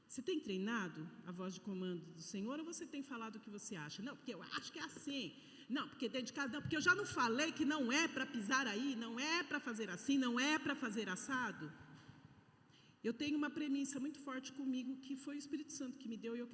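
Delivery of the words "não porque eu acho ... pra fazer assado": louder, fast nagging at home; scolding parent. Retold or imitated. Mother nagging her family at home, louder and fast. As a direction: rattle off the rules like a nagging mother.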